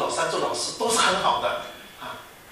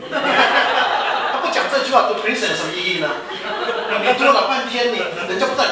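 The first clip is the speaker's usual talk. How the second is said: laughing while talking; 6 semitones higher, 6 dB louder than usual. Real, not acted. Laughs mocking Princeton bragging.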